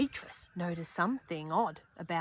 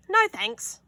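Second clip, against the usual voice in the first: higher, lightly voiced girl; shy refusal; 11 semitones higher, 6 dB louder than usual. Beatrice turns down her friends on the ice, a mild shy voice. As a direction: decline gently. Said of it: "said Beatrice".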